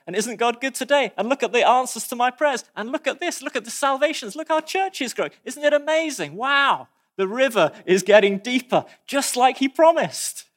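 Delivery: rising wonder and joy; excited believer. Retold or imitated. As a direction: imitate a thrilled churchgoer bubbling over. Believer thrilled by answered prayers.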